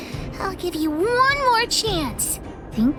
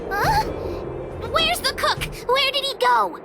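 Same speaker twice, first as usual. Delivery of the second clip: alarmed surprise; 5 semitones higher than usual. Acted. Finds the suspect has gone.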